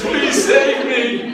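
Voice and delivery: mock plea. Students voiced pleading for rescue.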